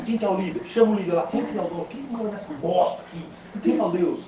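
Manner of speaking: mildly imperious, firing off questions; giving orders. Retold or imitated. Dreamer demanding the leader from the monks, retold bossy orders. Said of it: "dando ordem".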